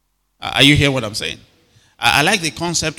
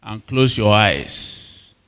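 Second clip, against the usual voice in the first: put-on slow, drawn-out instruction to children; Sunday school instruction; 3 semitones lower, much slower than usual. Sunday school teacher tells children how to pray, slow instruction. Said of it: "They say".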